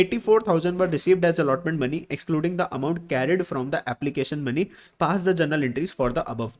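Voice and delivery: reading the question out slowly, word by word; measured dictation pace. Shown as a demonstration. Teacher reads question aloud slowly.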